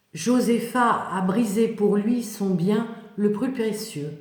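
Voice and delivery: dramatic storytelling voice; biblical narration. Acted. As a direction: read it like a solemn Bible story.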